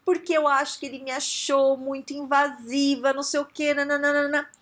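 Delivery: hammed-up wounded griping; mock complaint. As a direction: pile up grievances in a put-on whine. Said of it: "Tudo é interpretação minha".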